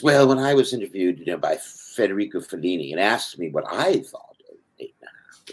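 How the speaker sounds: lightly mocked self-important celebrity; hammed-up celebrity interviewee; mocking fake celebrity. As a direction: send up a pretentious star giving an interview. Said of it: "I'm mocking those fake celebrities".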